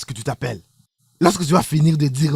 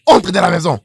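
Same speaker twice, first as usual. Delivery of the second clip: louder repeated order; angry shout; 2 semitones higher, 7 dB louder, faster than usual. Acted. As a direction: bark the command. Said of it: "Je dis".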